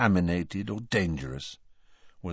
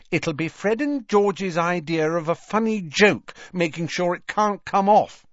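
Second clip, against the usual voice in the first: Ginny voice; 11 semitones higher, 4 dB louder than usual. Acted.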